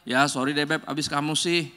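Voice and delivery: sulky sorry that shifts the blame; blaming apology. Retold or imitated. Spouse giving a grudging sorry, shifting blame back. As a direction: apologize while pointing the finger back. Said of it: "minta maaf bisa nyalain dia".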